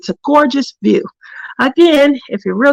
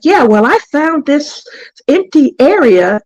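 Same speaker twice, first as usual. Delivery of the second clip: retold proprietary announcement, slightly raised; claiming the area; 4 semitones higher than usual. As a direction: imitate someone staking a claim. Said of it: "saying it like he's claiming the area".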